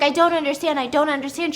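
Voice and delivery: a touch of acted panic; retold freaking out. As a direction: plead in mock bewilderment. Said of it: "She's freaking out".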